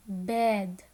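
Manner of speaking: "bed" said on its own with short eh; phonics-teacher "bed" with eh vowel. Shown as a demonstration. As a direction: model "bed" clearly as a single word. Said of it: "bed has the short sound".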